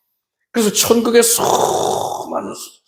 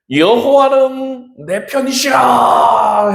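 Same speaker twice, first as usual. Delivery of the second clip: raised, drawn-out declaration; slow, higher-pitched preacher's cry; ringing proclamation; 4 semitones higher, 4 dB louder, much slower than usual. Acted. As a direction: proclaim it loudly, stretching the words. Psalmist's declaration quoted aloud.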